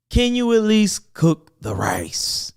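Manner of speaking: breathy whisper, slow; whispered plea. Real, not acted. Pleading with the men watching, in a slow whisper.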